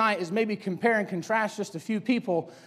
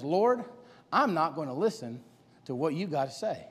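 low defiant refusal; 6 semitones lower, 7 dB quieter than usual. Acted. Esau refusing the Lord.

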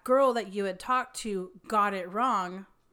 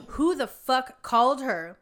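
angry quote; 4 semitones higher, 7 dB louder than usual. Retold or imitated. Doctor snapping at coworker.

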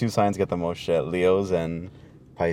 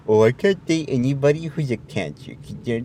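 mocking a zodiac believer; 6 semitones higher than usual. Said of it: "but not the whole, like".

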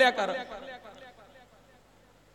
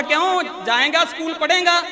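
raised voice calling down the well; father calling down; 4 semitones higher than usual. Retold or imitated. Angry father calls down the well to his son. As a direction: call down to the boy, a little higher. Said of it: "ਬਾਪ ਉੱਪਰੋਂ ਆਵਾਜ਼ ਮਾਰਦਾ".

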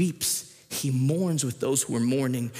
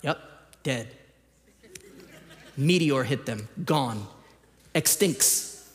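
deadpan child imitation, words dropped one by one; stoic, emotionless. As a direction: state it bluntly, leaving pauses between the verdicts. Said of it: "not an emotion on his face".

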